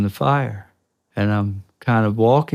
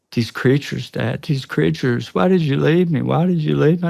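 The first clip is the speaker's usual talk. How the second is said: son's panicked pleading, pitched higher; imitating scared son; 5 semitones higher than usual. Teenage son pleading with his dad after the sighting, higher and panicked. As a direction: plead like a terrified teenage boy. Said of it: "he's saying things like".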